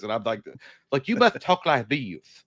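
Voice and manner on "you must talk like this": put-on slow, lightly posed British accent; slow British accent, carefully spoken. Dog thinking to itself, in a slow British accent. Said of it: "very brilliant, British voice".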